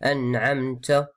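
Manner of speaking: "an'amta" ending in a hissed "tsa"; Moroccan-style "an'amtsa"; airy T. Shown as a demonstration. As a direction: let air escape on the t of "an'amta". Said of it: "c'est pas".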